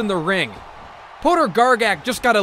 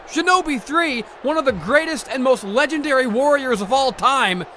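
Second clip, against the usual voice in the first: raised, heated rant; angry tirade; 4 semitones higher than usual. Acted. Commentator ranting about the treachery of Pig Swine, heated. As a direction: vent fury at the treachery. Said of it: "going off on a tirade".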